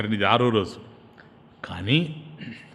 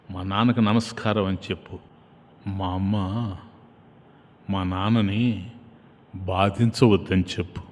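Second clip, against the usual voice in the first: tender Rama; 7 semitones lower, 5 dB quieter than usual. A narrator's reading. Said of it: "రాముడు నన్ను దగ్గరగా పిలిచి".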